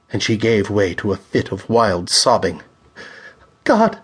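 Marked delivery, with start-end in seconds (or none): 3.6-4.0 shrieked. A narrator's reading. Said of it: "she shrieked".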